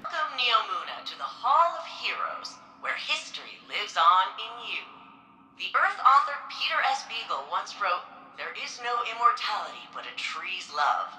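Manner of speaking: formal guide voice, measured and proud; museum tour narration. Acted. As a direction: welcome visitors like a recorded exhibit guide. Recorded museum tour greeting.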